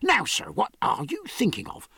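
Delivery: angry shopkeeper, without shouting. A narrator's reading. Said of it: "said the silversmith angrily".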